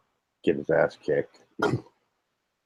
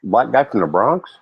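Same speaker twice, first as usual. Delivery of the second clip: sarcastic. Real, not acted. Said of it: "I'm being sarcastic".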